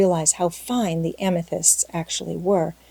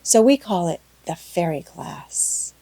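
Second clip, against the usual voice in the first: a hint of an eager young girl, rattling on; lightly voiced chatty girl. Anne chattering to Marilla about the picnic, breathless and eager. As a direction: let the girl's delight bubble along. Anne's chatter read in character.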